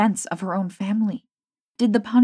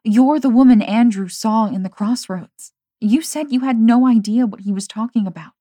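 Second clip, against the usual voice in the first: accusing; 4 semitones higher, 8 dB louder than usual. A narrator's reading. Confronting the betrayer.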